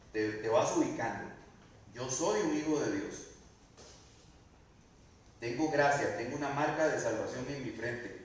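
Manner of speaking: firm commanding rebuke spoken straight at the spirits; rebuking darkness. Shown as a demonstration. Believer standing up to the darkness, firm commanding rebuke. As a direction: command them to leave with authority. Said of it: "nos paramos frente a ellos y les decimos".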